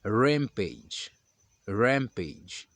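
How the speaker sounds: rampage with a dense English R. Shown as a demonstration. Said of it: "Outra palavra que nós temos é". (rampage com R carregado)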